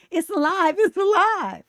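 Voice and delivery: high, loud, hammed-up shriek; mock mad scientist scream. Teller imagining screaming about an ugly baby, hammed-up shriek. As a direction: scream it like Frankenstein's creator is losing it. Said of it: "run up and down the street screaming".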